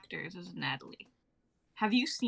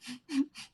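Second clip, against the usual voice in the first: giggling laugh; 3 semitones higher than usual. Acted. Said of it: "She laughs uncontrollably".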